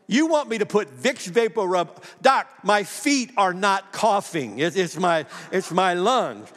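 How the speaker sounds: retold disbelief, slow and emphatic; incredulous protest. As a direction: object to the doctor in mock disbelief. Protests doctor's absurd remedy.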